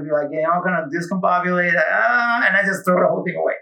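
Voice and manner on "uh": mock exasperated "aah", pitched up; hammed-up cry of frustration; frustrated groan. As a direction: act out a higher groan of giving up. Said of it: "I'm gonna get frustrated".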